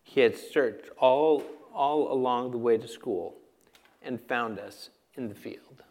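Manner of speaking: story narration. A narrator's reading. Reads a story from a book.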